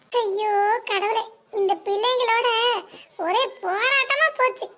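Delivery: exasperated lament. Acted. Mother exasperated by daughters.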